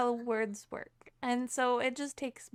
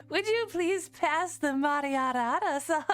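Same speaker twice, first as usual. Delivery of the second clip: hammed-up posh British with tapped r. Streamer playing a posh dinner guest, hammed-up British accent. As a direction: overdo the polite British request. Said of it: "The British one sounds so posh".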